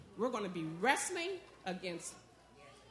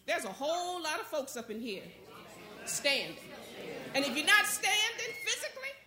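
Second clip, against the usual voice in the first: raised-pitch preacher's exhortation; rousing preaching; 5 semitones higher than usual. Real, not acted. Preacher encouraging folks who have been through a lot, rousing preaching. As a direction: lift the congregation with high, insistent phrases.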